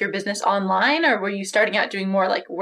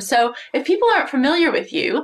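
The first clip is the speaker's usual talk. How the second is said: tinny, lo-fi recorded call; poor audio quality. Real, not acted. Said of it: "less than stellar, um, audio quality".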